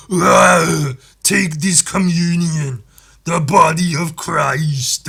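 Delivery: put-on slow, loud Austrian-accented preaching; Arnold as a vicar. Arnold-vicar giving communion to the congregation, slow Austrian preaching. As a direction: preach like an Austrian action hero. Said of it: "Arnold Schwarzenegger was your vicar".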